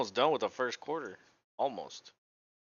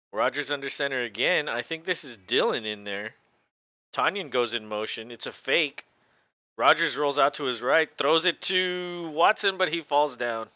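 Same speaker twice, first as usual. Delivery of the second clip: excited play-by-play; 3 semitones higher, 5 dB louder than usual. Real, not acted. Live play-by-play of football game.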